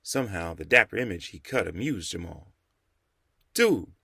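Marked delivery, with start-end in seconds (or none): 3.5-3.9 warm greeting. A narrator's reading. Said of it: "greeting the old man warmly".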